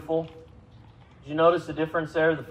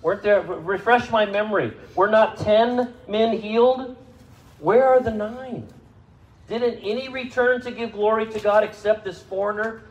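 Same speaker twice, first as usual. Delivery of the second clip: higher and louder, pressing the question; incredulous raised question; 8 semitones higher, 4 dB louder than usual. Acted. Preacher voicing Jesus asking where the nine went, incredulous and loud. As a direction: demand an answer, astonished.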